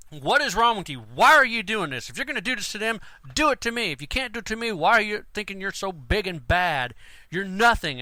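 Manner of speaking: angry confrontation. Retold or imitated. Handler confronting a worker, heated angry scolding. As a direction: lay into him, protective and furious. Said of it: "I really went at it".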